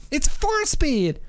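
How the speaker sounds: put-on high, slow, insistent Ukrainian accent; imitated Ukrainian accent. Seller insisting to the buyer on the gears, high, slow, hammed-up Ukrainian accent. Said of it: "I wish I could do his accent".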